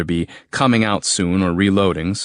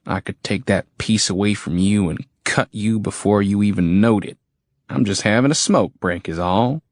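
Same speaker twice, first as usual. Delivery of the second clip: menacing redneck soldier. Acted. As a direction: warn him off, sneering. Soldier threatening narrator.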